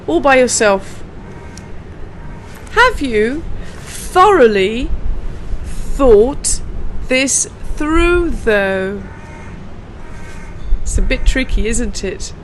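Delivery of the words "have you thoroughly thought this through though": slow, even pace with a pause on each chunk; slow for learners. Shown as a demonstration. Teacher giving learners a model to say alone, slow. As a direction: leave room for them to copy. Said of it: "Can you say this again?".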